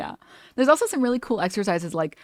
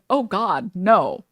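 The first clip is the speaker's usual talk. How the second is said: louder, appalled mock refusal; acted dismay; 5 dB louder, much slower than usual. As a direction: recoil from the very thought. Acted aversion to old voice.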